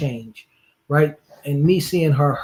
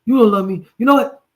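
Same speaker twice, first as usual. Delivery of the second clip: funny mock cursing; 7 semitones higher, faster than usual. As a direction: ham up his silly cursing fit. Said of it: "he sounded so funny saying it".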